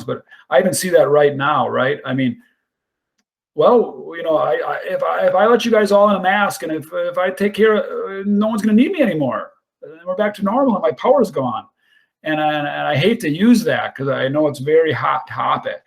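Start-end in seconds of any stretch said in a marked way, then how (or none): 4.8-11.7 a higher, mock-anxious leader voiced as a thought; half-mocking a leader's selfish inner monologue, voiced higher; inner voice of a controlling leader. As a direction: play the boss afraid of losing his power, pitched up.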